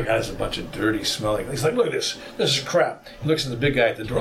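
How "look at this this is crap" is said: higher-pitched imitated scorn; mock disgust. Robed man rummages through the traveler's backpack, mock disgust. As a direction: dismiss it as rubbish, lightly acted.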